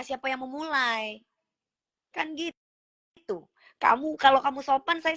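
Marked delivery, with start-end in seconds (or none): 2.1-3.5 breathy whispered aside. Real, not acted. Whispering an aside to viewers after scolding a commenter. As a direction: drop to a secret whisper.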